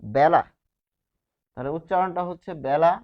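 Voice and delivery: বেলা said "bæla", with an open first vowel; e pronounced æ. Shown as a demonstration. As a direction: model বেলা with æ as in cat, not a closed e. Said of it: "এর উচ্চারণ".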